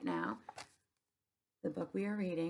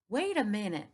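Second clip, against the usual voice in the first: higher, louder holler; 3 semitones higher, 5 dB louder than usual. Acted. Opal hollering at the store employees, loud. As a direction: call out to stop them. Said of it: "I hollered".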